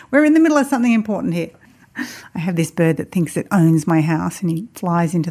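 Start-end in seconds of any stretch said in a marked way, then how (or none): 0.1-1.5 fast, laughing mock complaint. Real, not acted. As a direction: scold the bird through a laugh. Talking to bird, laughing.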